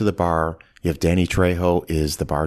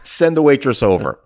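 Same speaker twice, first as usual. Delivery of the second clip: louder, laughing through the line; laughing quote; 5 semitones higher, 5 dB louder than usual. Retold or imitated. Podcaster retells Clooney's dismissive order, laughing and louder. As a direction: crack up mid-quote.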